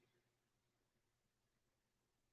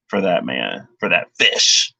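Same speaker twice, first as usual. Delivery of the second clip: oddly emphatic; 4 semitones lower than usual. Real, not acted. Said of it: "I don't know why I said it like that".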